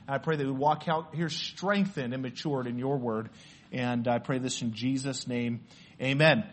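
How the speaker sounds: hushed, low-pitched prayer to close in Jesus' name. Real, not acted. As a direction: pray quietly and earnestly.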